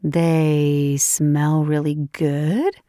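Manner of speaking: slow teasing question; teasing disbelief. Acted. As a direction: drawl it back, amused. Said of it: "Layla giggled".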